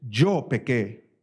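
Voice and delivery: slow, humble admission; slow humble confession of sin. Shown as a demonstration. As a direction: say it slowly, owning it.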